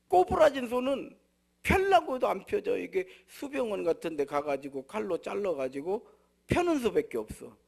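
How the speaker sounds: loud, high, insistent preaching; preaching at full force. Acted. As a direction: hammer the point home from the pulpit.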